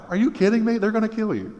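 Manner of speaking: high, disbelieving outburst; incredulous. Real, not acted. Preacher to congregation, high incredulous outburst. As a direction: react like it's insane. Preacher reacting to Paul's plan.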